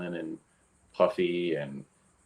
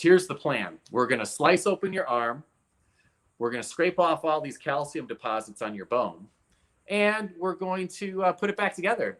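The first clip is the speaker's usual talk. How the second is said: lightly voiced doctor, higher and matter-of-fact; retold doctor; 6 semitones higher than usual. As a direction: imitate the doctor laying out the plan, pitched higher. Retells doctor's blunt surgery plan.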